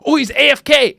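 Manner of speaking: high, loud excited discovery; gleeful gamer. Retold or imitated. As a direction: imitate a player spotting easy prey. Acting gamer spotting easy target.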